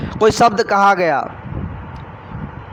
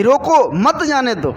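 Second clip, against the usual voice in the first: higher रोको, then मत जाने दो falling; pause after रोको; 4 semitones higher, slower than usual. Retold or imitated. What the senior officer really said, pause after रोको. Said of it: "इधर क्या बोले साध संगत जी बड़े अधिकारी".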